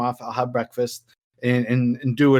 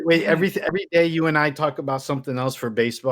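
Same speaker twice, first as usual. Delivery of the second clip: ordinary talk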